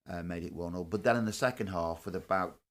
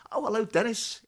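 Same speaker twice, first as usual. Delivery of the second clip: cheery hello; 7 dB louder than usual. Retold or imitated. Greeting Dennis Law on steps.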